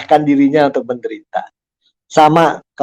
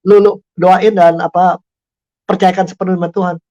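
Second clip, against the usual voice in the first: higher, breezy mock wife's retort; wife telling husband to just trust God, voiced higher; imitating wife; 4 semitones higher than usual. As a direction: toss it off like she brushes his worry aside. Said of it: "Enak aja ngomongnya".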